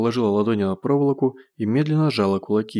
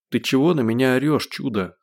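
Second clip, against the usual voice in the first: plain reading voice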